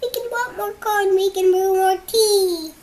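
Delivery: very high, loud squeaky mouse voice. Acted. Mouse comforting the sleepless bear, squeaky high voice. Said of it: "Mouse squeaks".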